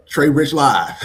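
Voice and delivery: loud, amused shout-out breaking into laughter; laughing shout-out. Real, not acted. Host greeting co-host in the chat, laughing.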